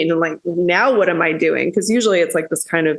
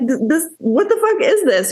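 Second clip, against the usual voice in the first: retold outrage; 9 semitones higher than usual. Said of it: "I got so fucking pissed off".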